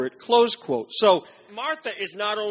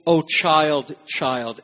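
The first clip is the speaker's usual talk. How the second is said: gentle; 3 semitones lower, much slower than usual. Retold or imitated. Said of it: "gently reaching toward Martha's heart".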